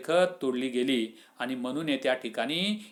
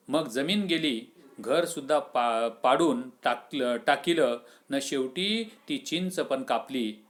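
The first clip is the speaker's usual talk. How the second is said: put-on grieving old man. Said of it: "फरसू भानावर आला".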